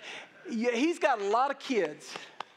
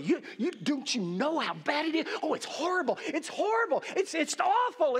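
mock fretting, rising higher; fretting demon; 4 semitones higher than usual. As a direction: act out a worrier working into a panic. Acting demon stirring up worry.

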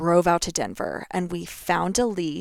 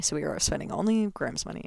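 usual speaking voice

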